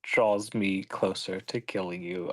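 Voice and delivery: slow, quiet, menacing threat. Acted. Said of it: "add to it a little threat".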